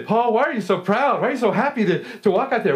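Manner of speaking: a hint of a nosy onlooker; curious asker.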